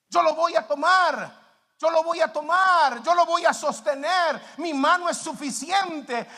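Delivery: loud, high preaching, each phrase driven home; forceful divine promise. Acted. Preacher voices God offering to carry burdens, forceful promise. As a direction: proclaim it boldly as God's own promise.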